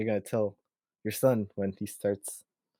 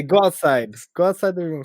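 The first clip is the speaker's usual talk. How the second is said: raised voice shooing a pet out; mock scolding order; 5 semitones higher, 6 dB louder than usual. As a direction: order the cat out, louder. Acting out ordering the cat out.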